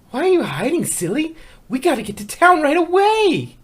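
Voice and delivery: bright eager voice; bouncy urging. Acted. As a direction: coax her out cheerfully. Pinkie urging Fluttershy.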